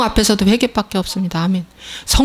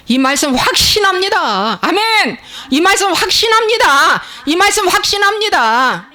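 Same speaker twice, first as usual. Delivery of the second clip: high, ringing declaration of conviction; impassioned high-pitched preaching; fervent proclamation; 10 semitones higher, 4 dB louder than usual. Real, not acted. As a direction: declare it from the pulpit.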